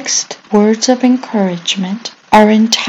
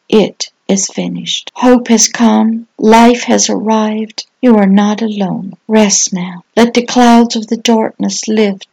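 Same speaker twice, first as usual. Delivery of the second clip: gentle reassurance. Acted. Pastor comforting the rescued one, gentle reassurance. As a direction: soothe an exhausted listener.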